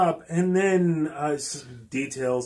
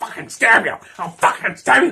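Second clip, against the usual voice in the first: put-on menacing street-tough voice, loud and high; 5 semitones higher, 7 dB louder than usual. Retelling a movie scene where a greaser pulls a knife: imitating a greaser's knife threat. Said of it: "the little greaser dude pulls out a knife".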